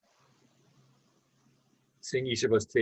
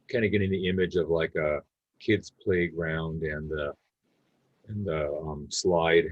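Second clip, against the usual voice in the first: calm meditation guidance with long pauses; unhurried, easy guide leaving space between phrases; guided meditation. Real, not acted. Leading a group to notice body and breath, guided meditation.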